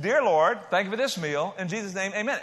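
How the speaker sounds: breezy mealtime prayer in one go; easy, offhand prayer. Shown as a demonstration. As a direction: toss it off to show how easy it is. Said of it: "It's not hard to pray".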